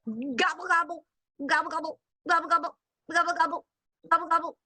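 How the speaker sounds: turkey gobble. Shown as a demonstration. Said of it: "Miss Julie is not good at animal impressions".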